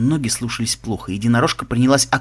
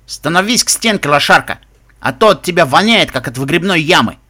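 raised, bullying command; gruff order; 3 semitones higher, 5 dB louder than usual. Acted. Guard lining the prisoner up for hosing, scornful raised voice. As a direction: order the prisoner about with contempt.

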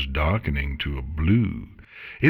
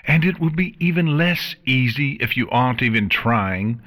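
cold, scornful queen; regal queen voice; 2 semitones higher than usual. Acted. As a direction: lecture her with disdain. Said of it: "returned swiftly".

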